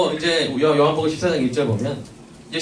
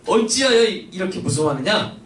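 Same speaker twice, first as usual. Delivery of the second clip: rebuke; 6 semitones higher than usual. Retold or imitated. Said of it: "책망하신 분이에요".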